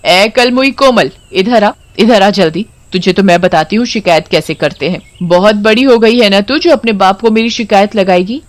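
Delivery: lightly voiced mother, harsh and scolding; scolding stepmother. Stepmother scolding Komal for complaining, lightly acted. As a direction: berate the girl like a spiteful mother.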